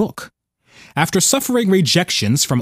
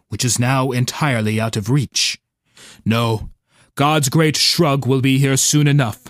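gurgling tentacle alien; 3 semitones lower than usual. Acted. Octopus calmly accepts its fate.

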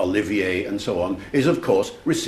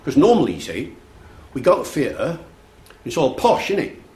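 higher-pitched Cockney impression; inner-city London teen; 5 semitones higher, 4 dB louder than usual. Lad tells lecturer theatre is posh, imitated Cockney. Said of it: "between the Cockney accent".

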